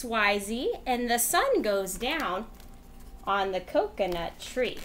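rhythmic read-aloud voice; reading to children. Acted. Teacher reading a rhyme book to kids, rhythmic. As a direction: read it like a bedtime storybook.

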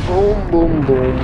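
high, descending mock gunshots; playful gunfire imitation. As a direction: chant the shots out, starting high. Mimicking shots during a game dive.

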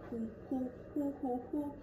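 dance hoots. Acted. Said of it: "enough of my dancing".

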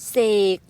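เส and ก sounded apart; teacher sounding out เสก; split syllables. Shown as a demonstration. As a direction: break เสก into pieces. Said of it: "เสกนะคะ".

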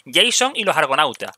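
"Jason" as English JAY-son amid Spanish; English-style "Jason", Spanish for the rest; English pronunciation. Shown as a demonstration. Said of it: "aquí la gente en inglés".

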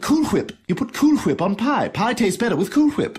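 "Cool Whip" with a breathy HW; "Whip" said hwip, H sounded; 1 aspirated hw. Acted. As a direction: blow air on the H of "Whip": hwip. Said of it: "putting so much emphasis on the H".

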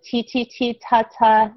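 light tapped T sounds; sounding out T. Shown as a demonstration. Teacher sounding out toe for a child. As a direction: tap T, then ta, building to toe.

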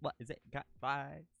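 put-on British accent, drawn-out vowels; mock British, trying the line out. Streamer practising the line, mock British accent. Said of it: "with a British accent".

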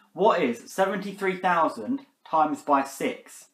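slow, careful question to Siri; asking voice assistant. Real, not acted. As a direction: spell it out for the phone. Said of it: "Are you stupid, Siri?".

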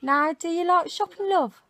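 1 Birmingham accent. Shown as a demonstration. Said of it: "teach Clarice a Birmingham accent".

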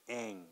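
"ang" soft with flat A; isolated sound. Shown as a demonstration. Teacher shows flat A in "ang" quietly. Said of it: "almost a natural A sound".

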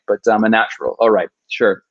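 dry, eye-rolling self-mockery; sarcastic. Real, not acted. He mocks the idea that he is a natural, dry sarcasm. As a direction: shrug off the praise with irony. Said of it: "me almost weeping because I can't say my name right".

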